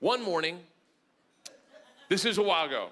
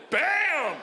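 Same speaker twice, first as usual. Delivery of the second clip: mock exclamation; 7 semitones higher than usual. Dad acting out daughter's flash in class, mock exclamation. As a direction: punch it out like a sound effect.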